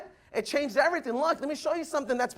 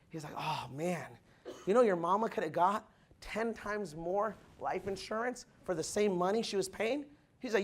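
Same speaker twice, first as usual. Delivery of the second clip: much softer, confiding; hushed retold dialogue; 5 semitones lower, 5 dB quieter than usual. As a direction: lean in and tell it low. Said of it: "He said".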